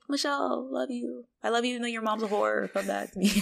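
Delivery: high, softened plea; imitated needy appeal; mock pleading. Retold dad pleading with Michelle.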